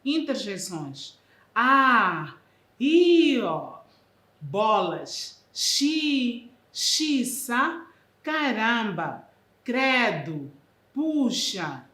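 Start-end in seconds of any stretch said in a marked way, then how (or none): 1.5-11.9 loud startled outbursts; loud cries of shock; surprised exclamations. Shown as a demonstration. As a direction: gasp them out as if caught off guard. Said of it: "espanto ou surpresa".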